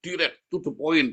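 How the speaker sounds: high-pitched self-proud imitation; imitating someone pleased with himself; mock boastful. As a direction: brag about your own bluntness, pitched well up. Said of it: "Dia bangga sekali".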